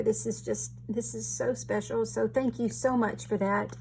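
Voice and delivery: soft, teary thanks, voice thick with tears; fighting back real tears as she thanks her friend; tearful. Real, not acted. Crafter thanking her friend for a sympathy card, softly tearful. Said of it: "I get to crying and I sound funny".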